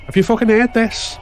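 bursts in with the news at full volume; indignant shout. Acted. Gibbo arriving at the picket line, outraged shout. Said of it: "Gibbo said several days later".

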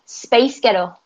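Scottish-sounding "space ghetto", ending like "gettle"; light Scottish take, two words run together; Scottish accent. Shown as a demonstration. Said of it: "That's how they would say".

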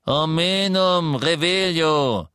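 spell incantation. A narrator's reading. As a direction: cast the spell deliberately. Casting a spell.

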